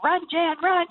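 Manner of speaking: excited urging. Retold or imitated. Cheering Jan on at brothel.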